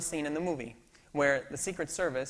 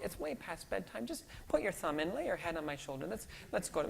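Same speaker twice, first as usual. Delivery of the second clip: soothing dad; 4 semitones higher, 4 dB quieter than usual. Retold or imitated. Dad soothing child at bedtime.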